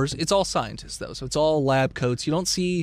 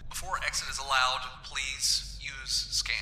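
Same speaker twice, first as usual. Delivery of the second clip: automated voice; 7 dB quieter than usual. Acted. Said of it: "you hear an automated voice come over and say".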